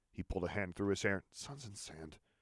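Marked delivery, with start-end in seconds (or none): 1.4-2.2 very soft mutter under the breath. A man reacting to a soldier's remark, muttering. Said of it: "he muttered".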